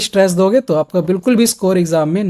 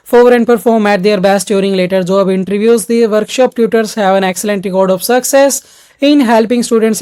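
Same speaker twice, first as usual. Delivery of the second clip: sample read with speed; much slower than usual. Shown as a demonstration. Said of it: "sample ही आपको करके दिखाता हूँ speed के साथ".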